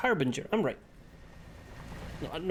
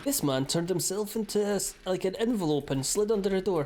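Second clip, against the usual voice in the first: higher mocking recital; mocking retelling; 5 semitones higher than usual. Player scoffing at hated book of X-Files facts, mocking. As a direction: recite it as ridiculous, voice lifted.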